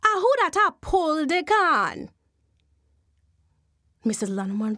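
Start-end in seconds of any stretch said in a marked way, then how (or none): 0.0-2.1 Jumbie voice. Acted. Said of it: "a voice say".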